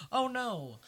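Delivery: playful mock cry over a dead cat; mock Filch wail. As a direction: whine like a heartbroken caretaker. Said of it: "Filch is like".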